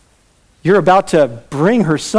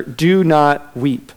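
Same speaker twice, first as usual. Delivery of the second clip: gentle command; much slower than usual. Retold or imitated. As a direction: comfort the grieving mother, slow and gentle. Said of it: "he says to her".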